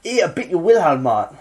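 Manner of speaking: lightly voiced cheeky youth; a hint of a mouthy teenager. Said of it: "that's me trying to be a youth".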